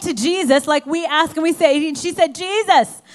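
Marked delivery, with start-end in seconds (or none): 2.4-3.0 high, loud, grieving protest; acted grief-stricken outcry; anguished confrontation. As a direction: demand answers from him in raised, anguished disbelief. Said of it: "she was in such agony".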